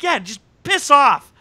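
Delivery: high, loud, drawn-out yell; slow, exasperated mock shout; mock irritated snap. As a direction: tell them off, hammed up. Acting out Chloe snapping at colleague.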